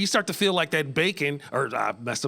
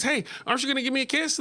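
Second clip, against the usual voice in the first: frog voice; 10 semitones higher, faster than usual. Retold or imitated. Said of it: "the frog says".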